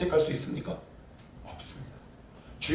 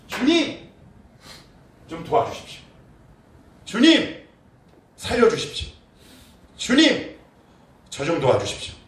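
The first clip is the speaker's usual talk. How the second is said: high, loud pleading calls of Lord; crying out to God; 4 semitones higher, 5 dB louder than usual. Shown as a demonstration. Preacher voicing Jabez crying to God, desperate loud pleading. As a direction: beg desperately, calling out. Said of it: "소리쳐 간구하는 거예요".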